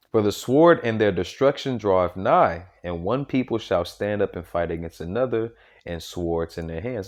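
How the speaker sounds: lightly formal Bible reading; scripture reading. Acted. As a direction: read it out like scripture from the pulpit. Reads scripture aloud.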